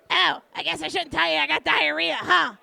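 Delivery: loud, teasing friend voice; lightly voiced pushy friend; loud Luna impression. Retold phone banter with Luna.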